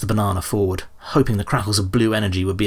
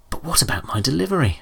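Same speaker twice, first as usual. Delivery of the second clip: high dismayed wail; a wail of dismay, pitched high; 7 semitones higher than usual. A narrator's reading. Wilmot's panicked thought.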